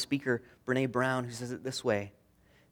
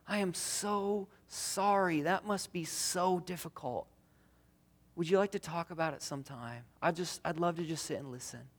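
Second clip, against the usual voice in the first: gentle sympathy; 3 semitones higher, 4 dB quieter than usual. Shown as a demonstration. Model words to a friend.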